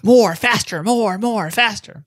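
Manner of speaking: high mock Dickensian urchin; pleading orphan boy. Teasing co-host's boxing mime as Oliver Twist, high pleading orphan.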